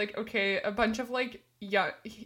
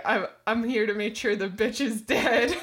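louder, lightly voiced old Scottish woman; 5 dB louder than usual. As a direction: imitate her loudly through amusement. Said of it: "like, an old Scottish woman".

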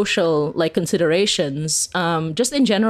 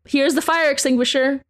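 higher, breezy, offhand hand-over; mock breezy horror character; 5 semitones higher than usual. A horror guide hands heroes an extinguisher, breezy and offhand. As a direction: toss the warning aside like it's nothing. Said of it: "they just, like".

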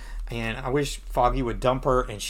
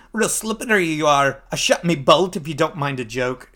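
mock Scottish villain; Scottish accent. Crossbow assassin meeting his foe, Scottish accent. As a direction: put on a Scottish brogue. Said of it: "I don't know why he's Scottish".

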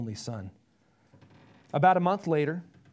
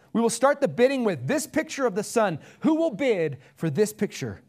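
higher, louder auctioneer call; 5 semitones higher, 5 dB louder than usual. Acted. Auctioneer opening the bidding to a crowd, loud and high. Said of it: "The auctioneer pounded his gavel".

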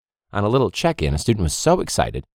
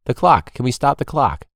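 raised, higher sideline call; calling to the ref; 5 semitones higher, 3 dB louder than usual. Retold or imitated. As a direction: project it across the field, asking. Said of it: "a simple request from me on the sideline".

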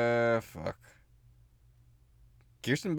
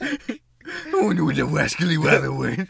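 Elmer Fudd voice; 4 dB louder than usual. Acted. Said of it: "You've got a deep ass voice now".

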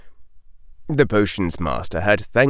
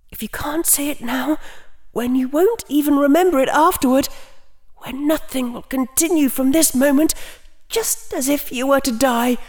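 high inner voice. Acted. Inner voice of Rian.

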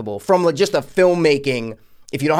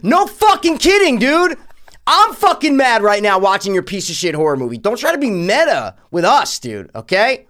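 high, loud exasperated yelling at the movie; angry rant; 8 semitones higher, 6 dB louder than usual. Retold or imitated. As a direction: blow up at the screen, fed up. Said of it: "I'm like".

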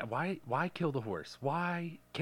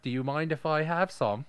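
louder mock Canadian accent, polite and chirpy; 3 semitones higher, 5 dB louder than usual. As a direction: play a cheerful Canadian with eh. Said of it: "they just say "A" at the end".

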